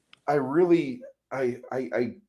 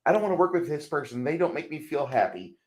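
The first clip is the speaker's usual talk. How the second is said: higher, mock-fragile complaint; mock whining; 5 semitones higher, 3 dB quieter than usual. Man mocking touchy people who won't work together, mock whining. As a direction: whine it like an oversensitive co-worker.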